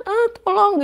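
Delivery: high-pitched yell that falls short of a scream; retold half-strength shout for help; weak cry for help. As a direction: call for help, not quite loud enough. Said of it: "teriak saya kurang kencing".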